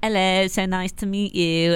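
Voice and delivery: mock Australian greeting; bad Australian accent, lightly done; fake Australian accent. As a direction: put on a dubious Australian accent. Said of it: "speaking of funny accents".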